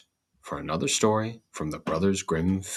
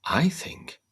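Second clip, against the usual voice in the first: bean's voice; 11 semitones higher than usual. Acted. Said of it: "answered the bean".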